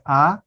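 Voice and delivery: "a" said with a wide open mouth; open-vowel "a". Shown as a demonstration. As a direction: open the a fully. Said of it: "then it is open".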